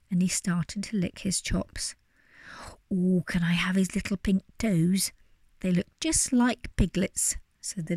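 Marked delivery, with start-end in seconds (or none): 2.9-7.4 eager little wolf; greedy glee. Acted. Little wolf voiced in story.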